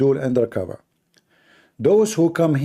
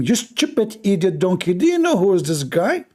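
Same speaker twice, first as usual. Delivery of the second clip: higher scolding voice; scolding angel; 5 semitones higher than usual. Acted. Jibreel scolds the donkey, mild mock anger. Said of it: "he said to him".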